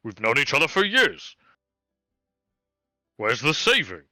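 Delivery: a hint of a put-upon hobgoblin haggling; hobgoblin complaining. Hobgoblin grumbling to his old friend Terrence about prices.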